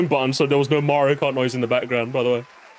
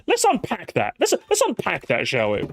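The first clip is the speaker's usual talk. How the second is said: leftist video essayist. Acted. Briton mocking a leftist video essay, essayist voice. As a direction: lightly send up an earnest essayist. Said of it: "make, like, a leftist video essay".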